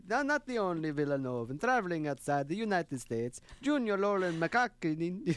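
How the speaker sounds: a light mock Italian accent. Host reading the next part on request, in a light Italian accent. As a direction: read the paragraph with a hammed-up Italian lilt. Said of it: "Italian for the next part".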